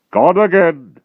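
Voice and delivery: loud, slow, heavy giant voice; dim brutal giant. A narrator's reading. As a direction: drag each word out like a lumbering brute. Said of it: "said Gallopus".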